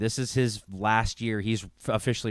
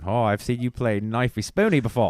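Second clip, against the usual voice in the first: mock Australian accent; 4 dB louder than usual. Answering quote, mocking Aussie.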